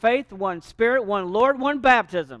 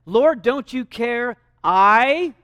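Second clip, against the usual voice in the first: slow, louder grievance; indignant complaint; 2 semitones higher, 5 dB louder, much slower than usual. Retold or imitated. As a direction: drag out the protest. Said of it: "And here's what she says".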